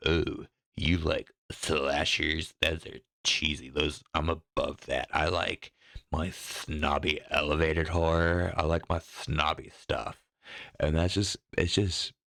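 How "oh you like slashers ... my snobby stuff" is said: a mild mock film snob. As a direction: put on a hint of a horror snob looking down. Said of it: "they feel, like, cultured".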